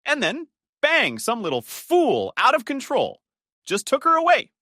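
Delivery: rising to a pained cry; anguished outburst. Acted. Grieving husband's anguished outburst.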